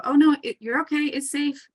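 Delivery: high-pitched, coaxing mock reassurance; imitated reassuring coach. Parent or coach to a hesitant child, imitated high reassurance. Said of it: "sometimes coaches will go".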